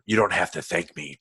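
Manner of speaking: lightly imitated low superhero voice; low-key Batman imitation; Christian Bale's Batman. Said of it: "so with Christian Bale, I think his voice".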